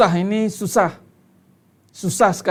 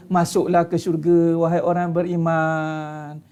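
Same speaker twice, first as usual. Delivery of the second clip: mock pleading invitation; 2 semitones lower, slower than usual. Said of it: "Dia tak ada".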